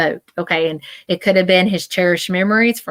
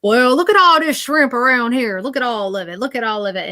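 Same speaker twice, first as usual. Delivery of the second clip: man on the boat; 6 semitones higher than usual. Acted. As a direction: call out excitedly like the man on the boat. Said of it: "the man come up on the boat, and I could see him".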